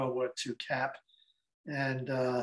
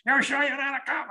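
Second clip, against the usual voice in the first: much higher, unconvinced questioning; pitched-up doubting voice; suspicious older lady; 11 semitones higher, 3 dB louder than usual. Retold or imitated. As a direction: imitate a wary old lady pressing a stranger. Older lady challenges him again.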